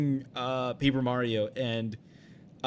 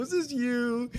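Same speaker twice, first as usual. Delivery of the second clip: high-pitched delighted asking; elated; 10 semitones higher, slower than usual. Retold or imitated. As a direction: retell it in an excited high voice. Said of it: "and I was, like, elated".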